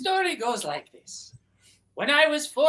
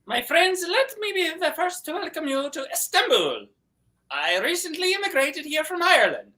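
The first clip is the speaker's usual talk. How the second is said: put-on Irish accent; 3 semitones higher than usual. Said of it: "gave us a wonderful Irish accent".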